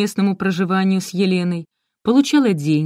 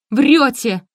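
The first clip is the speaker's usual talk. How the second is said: loud, higher accusation; furious outburst; 6 semitones higher, 5 dB louder than usual. A narrator's reading. Oksana loses her temper at the mother. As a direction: snap it at her in fury. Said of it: "пошла в разнос Оксана".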